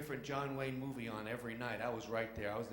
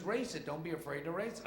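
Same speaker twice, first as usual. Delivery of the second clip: raised, higher-pitched mechanic's call; 5 semitones higher than usual. Acted. Mechanic to driver at the hood, calling out. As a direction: urge the driver over the engine. Mechanic calls out over engine.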